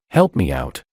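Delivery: usual speaking voice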